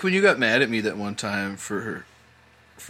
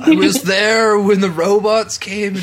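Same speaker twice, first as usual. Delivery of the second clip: higher, slow, laughing elder parody; mock ancient elder, laughing; 7 semitones higher, 4 dB louder, much slower than usual. Joining the joke about ancient raves, slow laughing mock elder. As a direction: join the joke as an ancient witness. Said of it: "you were like".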